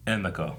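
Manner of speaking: Emiko said "EH-meh-ko"; long "eh" pronunciation. Retold or imitated. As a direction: begin Emiko on an open "eh". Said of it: "like, a long, like, eh".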